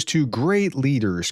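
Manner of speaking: "great" leaned on within the phrase; stress on great. Shown as a demonstration. Newscaster quoting an envoy's praise of the two leaders, stress on "great". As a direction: put the weight on "great". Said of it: "I stress the word great here".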